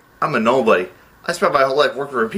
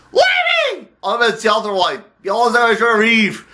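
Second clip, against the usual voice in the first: desperate cry; 8 semitones higher than usual. Acted. Producer begging the accountant, desperate high wail. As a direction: cry out high, then stretch the plea. Desperate melodramatic plea for help.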